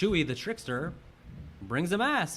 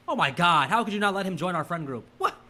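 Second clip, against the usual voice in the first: high, loud exasperated whine; whiny girlfriend; 6 semitones higher, 5 dB louder than usual. Retold or imitated. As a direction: plead like an offended teen. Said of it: "Trent like".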